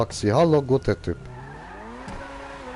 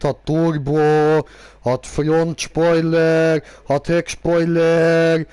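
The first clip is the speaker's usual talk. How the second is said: slow bragging list; 4 dB louder, much slower than usual. Acted. Shows off tuned car.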